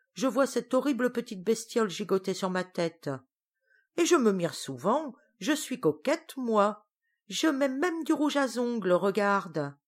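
rant, mildly put out; mild outrage. Acted. Witch ranting to her cousin, mildly indignant. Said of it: "Griselle se révolte".

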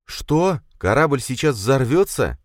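high, loud alarmed disbelief; shocked. Acted. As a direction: gasp it out in alarm. Prince learns ship will explode.

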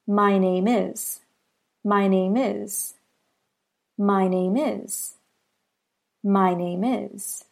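"My name is" said as one linked sound group, maɪneɪmɪz; linked demo. Shown as a demonstration. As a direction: glide "My name is" into one word. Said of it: "So that sounds like".

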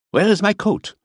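put-on a fussy old foreigner demanding his coat; Miller. A narrator's reading. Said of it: "fussy Miller voiced".

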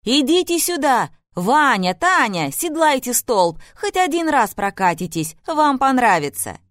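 loud cheerful shout from below; calling from downstairs. A narrator's reading. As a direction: call them down the stairs, loud and high. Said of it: "крикнула снизу Ирина Леонидовна".

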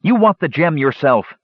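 high-pitched accusation; crying out. A narrator's reading. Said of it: "Palin cried".

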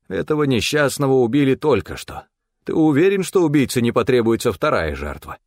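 high, pressing reproach; urgent warning. A narrator's reading. Stefan warns his partner the killer is close, urgently.

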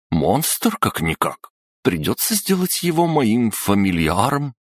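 a stern lady suddenly thrilled; excited headmistress. Acted. Headmistress excited, planning aloud.

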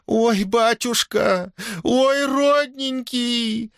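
high, slow wailing through sobs; a daughter-in-law sobbing to her father-in-law; choking on tears. Acted. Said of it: "давилась слезами Милодора".

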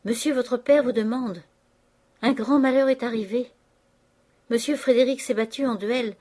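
annonce forte, haute et précipitée; effaré. Acted. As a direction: domestique affolé porte une mauvaise nouvelle. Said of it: "entra précipitamment d'un air effaré". (annonce affolée et forte)

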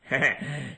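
short scornful laugh; amused snort of a laugh; mocking chuckle. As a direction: chuckle at the master's tears. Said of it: "liền cười và nói".

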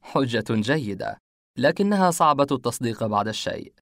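wry. Acted. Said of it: "اتسعت ابتسامتي وأنا أقول".

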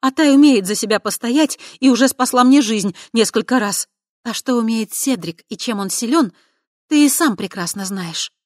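loud, high, hurt defence; offended. Acted. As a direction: defend friends, loud and stung. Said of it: "обиделась за ветра третьего".

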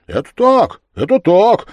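very high, loud shouts of agreement; chorus agreement. Acted. All the lads shout agreement in one voice. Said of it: "закричали в один голос".

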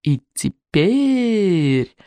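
slow, drawn-out hiss; hissing dragon head. Acted. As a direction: stretch it out menacingly. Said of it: "прошипела вторая голова".

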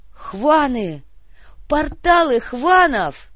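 loud, high, slow alarm cry; alarmed shout. Acted. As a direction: yell the warning across the field.

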